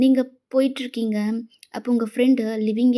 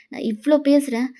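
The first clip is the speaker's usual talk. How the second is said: demanding outburst; 4 dB louder than usual. Acted. Friend demands an answer, rising.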